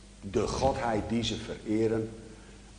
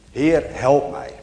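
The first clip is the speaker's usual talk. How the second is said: louder, slow mock cry for help; mildly acted call for help; 3 semitones higher, 6 dB louder than usual. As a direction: call out slowly, retelling a plea. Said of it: "En dan roept hij".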